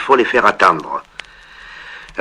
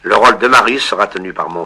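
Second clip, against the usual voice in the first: stage announcement; 3 semitones higher than usual. Acted. Father announcing the Marius scene to an audience, formal. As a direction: present the show to an audience.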